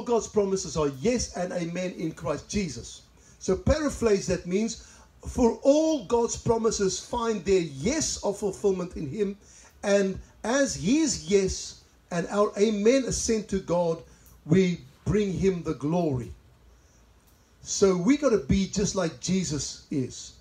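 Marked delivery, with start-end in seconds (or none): 5.3-16.3 slow, weighty verse reading; emphatic scripture reading. Acted. Preacher reads a promise to the congregation, deliberate. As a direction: give each phrase of the verse room.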